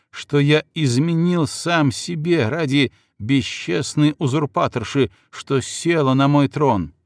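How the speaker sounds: slow, proud and indignant; indignant outburst. Acted. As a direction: protest with wounded pride. Chingizid protests indignantly.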